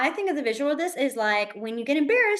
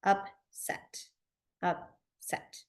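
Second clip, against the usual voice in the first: upset, softly; 3 semitones lower, 7 dB quieter, much slower than usual. Shown as a demonstration. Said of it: "you're gonna turn it".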